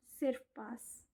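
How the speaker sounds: slow, whispered; whispered resignation. Real, not acted. Student whispering she only wants to pass. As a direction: let it fall away in a whisper.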